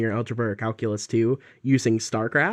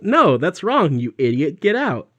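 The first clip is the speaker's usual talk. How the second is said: mock angry teacher; 4 semitones higher, 4 dB louder than usual. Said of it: "she'd be like".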